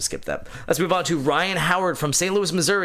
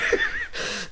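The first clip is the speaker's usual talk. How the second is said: high laugh; 5 dB quieter than usual. Retold or imitated. Kid voice laughing.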